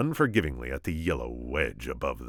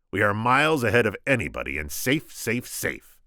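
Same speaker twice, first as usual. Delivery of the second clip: higher, self-satisfied boss; smug Sicilian; 5 semitones higher, 3 dB louder than usual. Acted. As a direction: savour being ahead.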